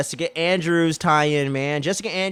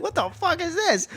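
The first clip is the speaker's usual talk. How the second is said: dad imitation. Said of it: "so he's like".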